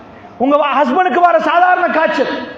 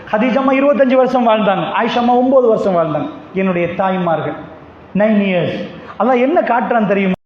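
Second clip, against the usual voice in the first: ordinary talk, nothing marked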